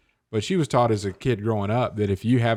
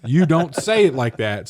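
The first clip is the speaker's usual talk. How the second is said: louder scolding parent, retold; stern correction; 4 semitones higher, 5 dB louder than usual. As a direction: imitate a mother firmly correcting a child. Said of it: "she was very hard on me".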